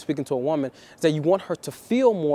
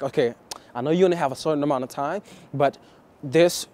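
fast, hurried opener to a woman; fast and rushed pickup line; rushed fast pitch; faster than usual. Retold or imitated. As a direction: rattle it off, rushing her. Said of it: "I used to be fast like that".

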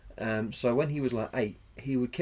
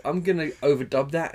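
American director voice; 3 semitones higher, 6 dB louder than usual. Retold or imitated. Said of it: "And then he's like".

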